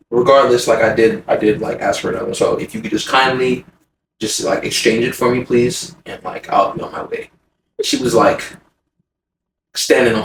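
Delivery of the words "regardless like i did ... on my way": soft, low, courteous request; patient and polite. Retold or imitated. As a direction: ask kindly, trailing softer. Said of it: "I'm very patient and I'm very polite".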